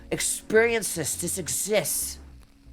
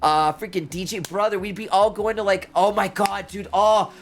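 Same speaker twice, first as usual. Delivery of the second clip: higher, bursting with excitement about friends; excited; 3 semitones higher than usual. Real, not acted. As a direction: gush about the trip, voice jumping up. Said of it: "I'm getting excited just thinking about it".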